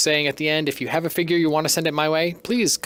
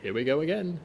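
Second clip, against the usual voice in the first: C-3PO impression. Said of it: "my three P O is horrible".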